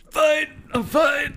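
high, loud laughing "fine"; choking laugh, waving off concern. Real, not acted. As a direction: insist you're fine through laughter. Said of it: "You okay?".

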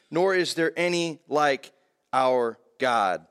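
slow, measured reading of the psalm-like prayer; scripture reading. Acted. Preacher reading Hannah's prayer aloud, slow and measured. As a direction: read the verses slowly to the congregation.

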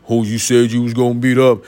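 mock tough, level challenge; lightly put-on bass of someone offended. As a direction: imitate someone squaring up, on one note. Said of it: "that bass come back out when they get offended".

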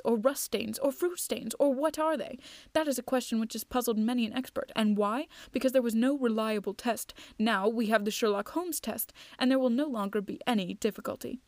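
measured audiobook reading with lively dialogue; lightly acted storytelling; story narration. A narrator's reading. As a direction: read the detective tale aloud. Reads a detective story aloud.

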